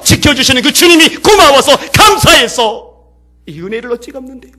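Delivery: loud, high, impassioned preaching; full-force preaching. Acted. Preacher to the congregation at the sermon's climax, impassioned. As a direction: preach it at the top of your voice, carried away.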